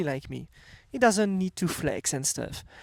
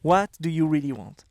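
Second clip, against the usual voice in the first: French accent; 2 semitones lower than usual. Shown as a demonstration. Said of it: "With my French accent".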